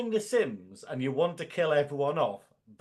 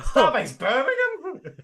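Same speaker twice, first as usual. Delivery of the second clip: high, slow, laughing disbelief at Birmingham; incredulous laughing question; 10 semitones higher, 6 dB louder, slower than usual. Real, not acted. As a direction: drag out Birmingham in amused disbelief. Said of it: "You're right".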